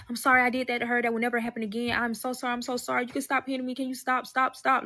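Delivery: hurried, whiny imitation of desperate apologies; retold begging apology. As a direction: beg for it to stop, imitating a beaten man. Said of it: "start apologizing".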